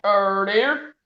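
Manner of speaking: lightly put-on catchphrase, lifting at the end; drawn-out mock dismay; Deck impression. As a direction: stretch the OH, then lift on DEAR. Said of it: "That's my deck impression".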